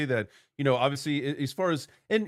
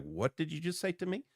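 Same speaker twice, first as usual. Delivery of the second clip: baffled quote; 5 semitones higher, 6 dB quieter than usual. Retold or imitated. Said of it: "people are like".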